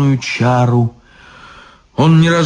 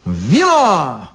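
meek repeat; 3 semitones higher than usual. Acted. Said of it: "покорно повторил изящный".

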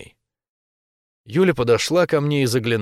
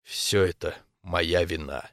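ordinary delivery

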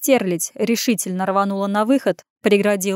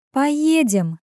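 higher, insistent override; cutting in; 6 semitones higher than usual. A narrator's reading. Woman interrupting his objection, firmly insistent. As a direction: cut across his refusal. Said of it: "перебила Ирен".

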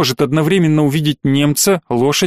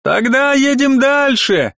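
soldier voice; 10 semitones higher, slower than usual. A narrator's reading.

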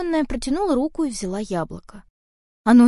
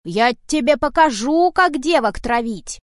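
furious shout; 2 semitones higher, 5 dB louder than usual. Acted. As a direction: drive the old witch off. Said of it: "напустился кот на старуху". (кот яростно кричит на ведьму)

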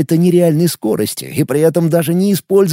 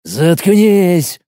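hissed; 3 semitones higher than usual. A narrator's reading. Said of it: "прошипел офицер".

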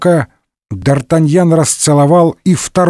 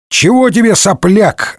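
mild mock yell; 7 semitones higher than usual. A narrator's reading. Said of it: "заорал Д'Артаньян".

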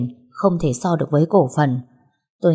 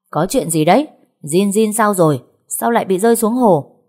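louder questions, climbing higher; stern shout; 3 semitones higher, 4 dB louder than usual. Acted. Grandfather arriving and demanding answers, shouting. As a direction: bark demands at the family. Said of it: "Ông nội của con tôi quát".

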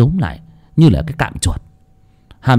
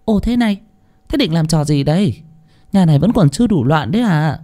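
sharp higher sneering reproach; mock-disdainful maid, higher; scornful scolding; 4 semitones higher than usual. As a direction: roll the eyes and scold them. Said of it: "chị nguýt dài".

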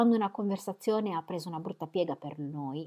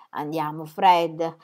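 brisk and much louder on Fred; energetic; 9 dB louder, much slower than usual. A narrator's reading. Mary firmly scolding Fred for being so critical, energetic. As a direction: push back with spirit. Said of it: "disse Mary con energia".

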